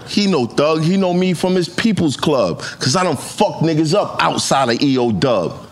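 rhythmic battle rap recital; reciting a battle line. Retold or imitated. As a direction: spit the bar like on stage. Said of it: "Here's a line from that battle".

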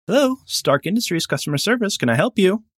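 high, bright phone-desk greeting; chipper customer service rep. Pretend. Stark Industries rep answering a buyer's call, high and chirpy. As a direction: answer the line like a cheery call-centre agent.

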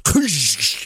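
mouth-made shattering noise; imitated crash. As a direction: imitate breaking glass with your mouth. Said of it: "I hear this".

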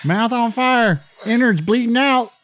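high squeaky parody voice; squeaky mock narration. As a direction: read it like a goofy spoof. Mocking the clip's captions.

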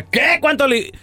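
a shocked high squeak at the price; shocked wife. Retold or imitated. Husband retells his shocked wife's squeak at the taco bill. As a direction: play the stunned wife hearing the bill.

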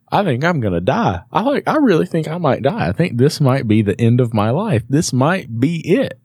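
high-pitched, retold dying plea; mock desperation. Storyteller telling the urologist he might die, mock desperate. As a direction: plead as if doomed, playing it for laughs.

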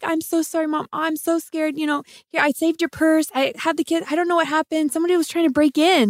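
put-on high, hushed, pleading little-girl voice; scared kid apology. Wife retelling apologizing to her mom, high and hushed. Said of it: "I'm like".

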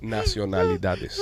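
"Nacionalidades" spelled out very slowly, every syllable clear. Shown as a demonstration. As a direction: coach him through "Nacionalidades" slowly. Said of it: "hay que desfrizarlo el muchacho". ("Nacionalidades" silabeado muy despacio)

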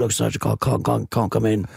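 lightly acted poorly caller; sick-day caller. Co-host mimics calling in sick for work, lightly acted poorly voice. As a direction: make a mock excuse on the phone. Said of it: "when you're calling sick for work".

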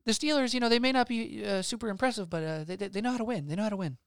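mock a Steelers fan in a silly high voice; troll voice. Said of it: "just in troll voices".

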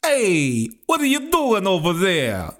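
high, loud put-on voice of an indignant angler; indignant fisherman. Fisherman shouting at an intruder at his fishing hole, high indignant voice. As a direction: squeal it out, outraged someone's at your spot.

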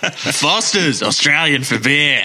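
mock Aussie beer slogan; playful Australian twang; Australian accent. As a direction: put on an Australian ad voice. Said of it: "That's how you get that".

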